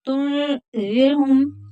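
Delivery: तुनज़िरहुम with the न hidden, nasal; nasal hiding. Shown as a demonstration. Teacher demonstrating ikhfa on तुनज़िरहुम. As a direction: soften the न into a nasal glide. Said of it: "यहाँ इख्फा होगा".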